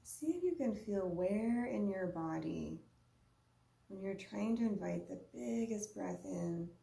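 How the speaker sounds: unhurried meditation guide, long pauses between phrases; guided meditation. Real, not acted. Yoga teacher guiding listeners to observe their breath, unhurried guided meditation. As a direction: lead a breathing practice in short, spaced-out invitations.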